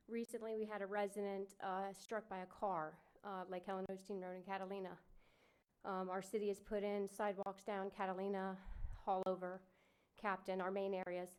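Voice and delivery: winded, catching breath between phrases; breathing hard after running in. Real, not acted. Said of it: "Sorry, I'm out of breath running here".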